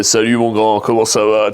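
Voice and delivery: mild imitation of a deep-voiced friend; big-voiced friend. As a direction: lightly imitate the giant boxer friend. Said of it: "il avait une grosse voix, il parlait comme ça".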